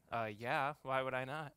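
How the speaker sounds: lightly voiced sassy four-year-old; sassy kid answer. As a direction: toss it off like it's obvious. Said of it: "the right sassy answer".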